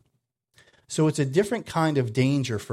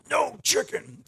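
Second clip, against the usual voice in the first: mock yell; 11 semitones higher than usual. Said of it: "they just hear".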